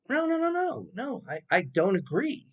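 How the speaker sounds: retold protest. His retold objection.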